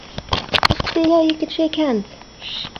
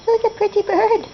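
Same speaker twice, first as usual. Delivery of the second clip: teaching a parrot; 6 semitones higher than usual. Shown as a demonstration. Modelling words for parrot.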